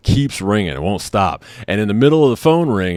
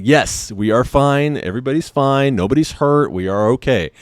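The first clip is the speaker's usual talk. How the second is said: retold firm insistence; 5 semitones higher than usual. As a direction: spell it out word by word. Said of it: "I'm telling her".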